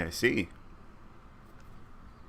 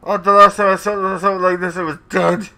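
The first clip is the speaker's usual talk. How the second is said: appalled; 5 semitones higher, 8 dB louder than usual. Real, not acted. Reeling from the cat smell.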